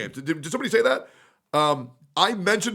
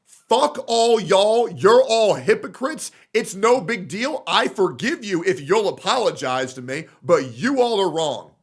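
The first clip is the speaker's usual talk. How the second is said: mocking quote; 2 semitones higher than usual. Quoting the rival's video ending with a sneering slow delivery. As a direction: sneer it out slowly like a smug rival. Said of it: "to end your video saying".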